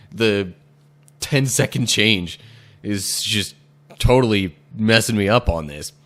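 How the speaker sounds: loud hammed-up Indian accent; lightly put-on Indian accent. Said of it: "that last one was my attempt at doing, like, an Indian accent".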